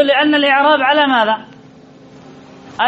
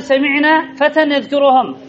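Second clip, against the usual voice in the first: Quran recitation; slower than usual. Shown as a demonstration. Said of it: "قال الله عز وجل".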